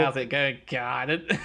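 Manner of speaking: amused Aussie greeting; playful Australian impression; mock Australian accent. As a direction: put on an Australian twang. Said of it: "Aussie, Aussie words".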